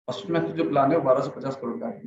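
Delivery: rushed, fast delivery; deliberately hurried; fast demo. Shown as a demonstration. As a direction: rattle it off too quickly. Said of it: "मैंने इतना fast बोला".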